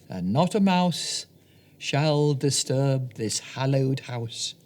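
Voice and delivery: slow, declaimed stage line; theatrical verse. Acted. Puck speaking his lines on stage, slow and grand. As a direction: proclaim it slowly like an actor.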